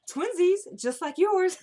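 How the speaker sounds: high, mock-excited squeal; hammed-up delighted teasing; gleeful taunt. Retelling Marcy's gleeful taunt.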